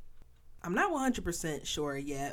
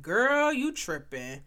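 sassy doubter; 5 semitones higher, 3 dB louder than usual. Retold or imitated. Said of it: "somebody out here like".

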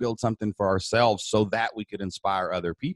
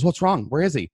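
alarmed wife; 7 semitones higher, 4 dB louder than usual. Retold or imitated. Wife arriving retold.

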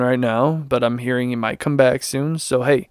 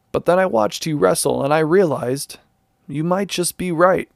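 lightly voiced Stone Cold. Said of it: "Stone Cold Steve Austin says".

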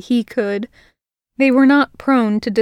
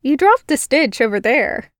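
put-on girl pointing out his mistake; teasing human girl; 3 semitones higher than usual. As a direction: needle him lightly. Girl's voice scolding the spider Fae.

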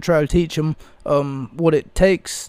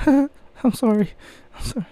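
laughing apology; 7 semitones higher than usual. Real, not acted. Apologizes while still laughing.

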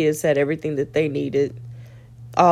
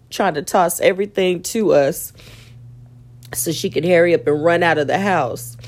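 laughing through pain. Real, not acted. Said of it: "it hurt so hard to laugh".

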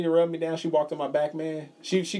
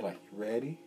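whisper; 4 semitones lower, 11 dB quieter than usual. Retold or imitated. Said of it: "whispering in her ear".

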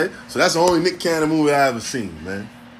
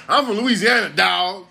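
higher put-on bragging; raised mimicking voice; mock Louisiana white boy; 4 semitones higher than usual. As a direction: imitate the guy announcing where he's from. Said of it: "I think he from Louisiana".

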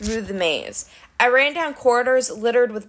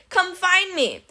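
high, singsong dare; teasing come-and-get-me lilt; taunting; 8 semitones higher, slower than usual. A narrator's reading. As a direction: goad him with a pitched-up call. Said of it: "she taunted".

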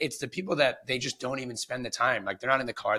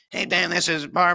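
louder, slow, lightly voiced know-it-all agent; cocky veteran caller; 5 semitones higher, 6 dB louder than usual. Veteran agent calling Dan to complain, mock smug. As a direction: lean in like a smug old-timer. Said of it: "But if you call me".

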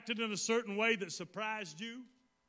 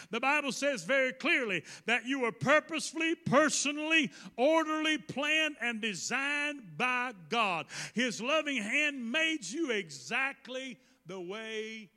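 building preacher cadence, each word punched; forceful preaching. Real, not acted. Preacher declaring the congregation designed by God, forceful preaching. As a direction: build the list, then slow down to land it.

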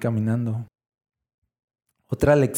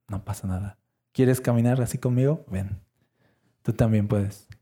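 soft and much quieter, gently inviting; tender invitation; 3 semitones lower, 3 dB quieter than usual. Acted. Jesus inviting a frightened person to walk with him, soft and tender. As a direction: speak softly to calm a frightened friend.

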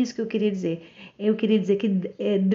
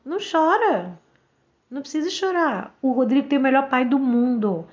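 brisk reassurance; 3 semitones higher than usual. Retold or imitated. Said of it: "Eu falei".

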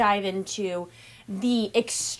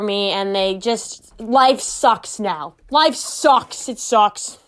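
mock whiny Boston accent; 4 dB louder, slower than usual. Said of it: "I'm going in with the Boston accent".

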